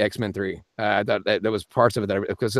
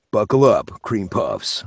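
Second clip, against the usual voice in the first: Nicolas Cage; slower than usual. Shown as a demonstration. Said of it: "What about Nicolas Cage?".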